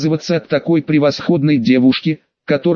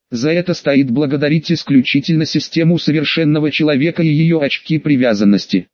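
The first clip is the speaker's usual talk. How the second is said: plain reading voice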